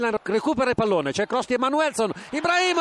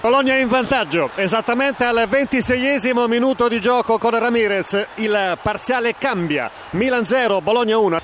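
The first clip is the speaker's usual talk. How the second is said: breathless italian goal commentary; 4 dB louder than usual. Real, not acted. Goal flash on radio.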